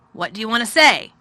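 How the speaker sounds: a tired, gloomy lord giving orders; gloomy master of house. A narrator's reading. Craven inquires.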